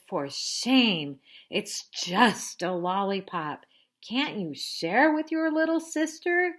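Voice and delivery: loud mock scolding; scolding big sister. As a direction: tell her off like a bossy big sister.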